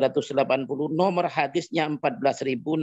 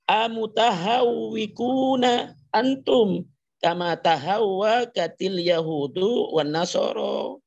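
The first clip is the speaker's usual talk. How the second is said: slow, raised, drawn-out recitation; Arabic hadith recitation; 6 semitones higher, slower than usual. Acted. Preacher quoting the Prophet's reply to Umar, slow raised Arabic recitation. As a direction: recite it high, stretching the long vowels.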